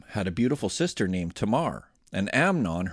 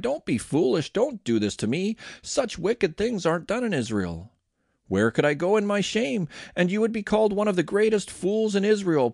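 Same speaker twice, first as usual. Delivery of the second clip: higher-pitched, urgent pleading; crying out in protest; 8 semitones higher than usual. A narrator's reading. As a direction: plead with him in a raised pitch. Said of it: "she cried".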